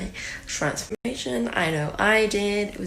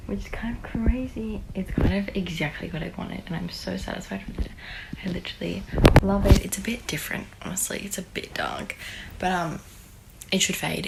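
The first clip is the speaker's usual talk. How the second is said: hushed, tired whisper. Real, not acted. Whispering after party at night.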